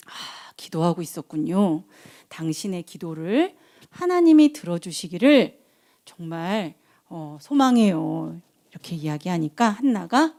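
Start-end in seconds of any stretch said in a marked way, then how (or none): 0.1-8.4 tag. Acted. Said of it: "그러니까 제사장이".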